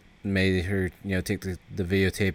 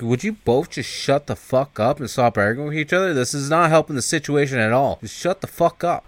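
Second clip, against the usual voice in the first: higher-pitched acted telling-off; exasperated scolding; 4 semitones higher than usual. Driver scolding two bickering passengers, exasperated. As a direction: put a stop to their bickering, pitched up.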